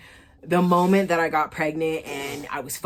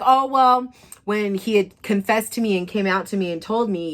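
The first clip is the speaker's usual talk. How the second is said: higher, louder mock excuse-making; 5 semitones higher, 3 dB louder than usual. Ex explaining the lie, lightly voiced mock excuse. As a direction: start the excuse high and eager.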